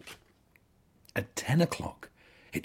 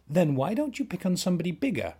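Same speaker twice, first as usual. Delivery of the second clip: blustering; 12 semitones higher, faster than usual. A narrator's reading. Ladybird blusters, fast.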